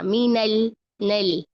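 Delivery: मीनल नल slowly with light "nel"; spread thin lam. Shown as a demonstration. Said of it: "इसको फैलाते जाएं".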